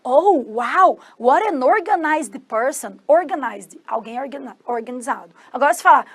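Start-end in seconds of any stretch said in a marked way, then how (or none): 0.0-3.0 slow, drawn-out impressed exclamation; admiring wow. Acted. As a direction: marvel at someone, stretching the words.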